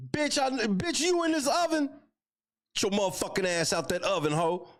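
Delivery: high-pitched, hammed-up disbelief; mock jealous boyfriend. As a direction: play a jealous boyfriend in a comic high squeal. Acts out jealous boyfriend searching oven.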